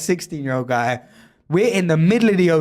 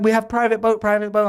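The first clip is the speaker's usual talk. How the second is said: mock Thai accent, pitched up; bad Thai accent; 6 semitones higher than usual. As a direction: imitate a Thai boatman touting, badly. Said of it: "I can't do a Thai accent".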